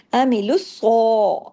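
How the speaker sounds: الص with a full, heavy ص; heavy saad. Shown as a demonstration. Teacher shows students the mouth for heavy letters, slow. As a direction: open the mouth wide for the ص of الص. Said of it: "ص کے اوپر آپ گئے تو آپ کا منہ اوپر نیچے ہوا".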